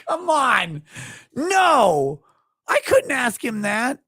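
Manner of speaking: high, loud protest through laughter; squealed protest; laughing protest. Real, not acted. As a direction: object while still cracking up. Laughing protest after question.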